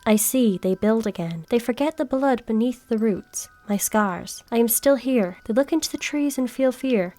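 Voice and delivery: low, hushed witch's message; ominous note read low. Acted. Gamer reading the witch's note aloud, low and ominous. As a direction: read it like a creepy threat whispered from the trees.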